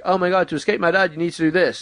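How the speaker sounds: lightly voiced panicky daughter; mock daughter. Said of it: "she's like".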